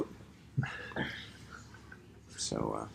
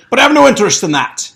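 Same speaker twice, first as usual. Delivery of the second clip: Doctor Smith voice; 8 semitones higher, 7 dB louder, faster than usual. Acted.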